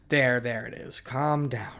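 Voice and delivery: steady, calming reassurance. Acted. Rescuer soothing a hysterical girl, calm tone. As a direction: soothe without raising the voice. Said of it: "spoke in a calm tone".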